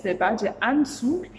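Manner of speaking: "das Schwimmbecken" drawn out slowly and clearly; teacher modelling a German word slowly; slow vocabulary demo. Shown as a demonstration. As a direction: present the new word slowly to the class. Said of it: "Je vais t'apprendre du vocabulaire".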